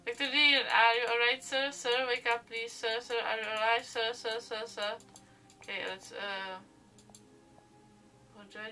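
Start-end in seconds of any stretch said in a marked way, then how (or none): 0.0-4.9 loud, urgent calling; shouting to wake the doctor. Acted. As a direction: try to wake him by shouting.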